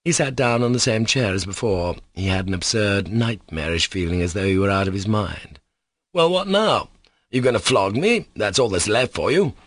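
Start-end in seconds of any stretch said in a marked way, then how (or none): 6.1-9.5 through clenched teeth. Acted. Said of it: "clenching his teeth".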